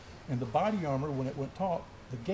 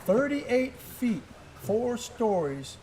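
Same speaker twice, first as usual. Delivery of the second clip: "Thirty-eight feet, four stories" stretched out slowly, each word weighted and higher; slow it right down and let each number sink in; drawn-out emphasis; 6 semitones higher, much slower than usual. Real, not acted. Telling friends how far he fell, slow and weighty. Stressing the height of the fall.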